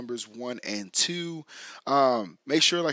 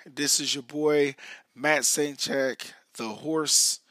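hoarse, scratchy voice; talking through a sore, raspy throat. Real, not acted. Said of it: "raspy voice guy tonight".

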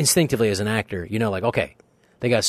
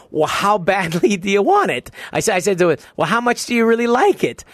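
higher, louder timid pleading; caving meekly; 11 semitones higher, 5 dB louder than usual. Retold or imitated. Actor caving to Stallone, high timid pleading. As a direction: back down nervously. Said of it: "I started immediately caving".

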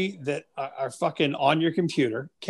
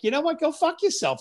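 mock retort; 10 semitones higher than usual. Ref jabbing back at hecklers.

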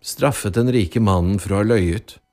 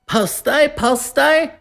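high-pitched shout to clear a path; called-out warning; 3 dB louder, slower than usual. A narrator's reading. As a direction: call out sharply over a crowd. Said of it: "ropte han".

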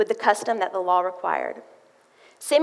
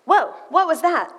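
startled wonder; 7 semitones higher, 4 dB louder than usual. Retold or imitated. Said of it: "I was like".

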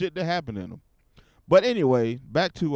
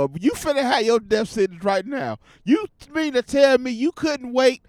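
pretend angry rant; 5 semitones higher than usual. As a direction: chew her out like she blew the whole heist. Imagining his own mama ruined it.

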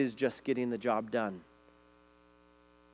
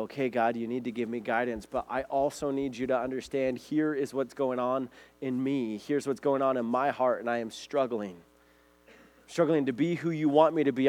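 earnest prayer. Acted. Pastor voices an honest morning prayer.

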